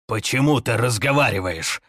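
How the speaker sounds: alarmed. Acted. Facing a talking corpse.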